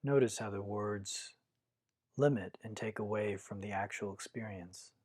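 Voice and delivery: calm, measured meditation guidance with long pauses; guided meditation. Acted. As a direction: guide listeners inward, one unhurried phrase at a time.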